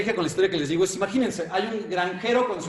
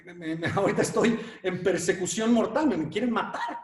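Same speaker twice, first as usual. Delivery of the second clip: mock scared mouse; 3 semitones higher than usual. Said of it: "el ratón ve y se súper espanta y dice".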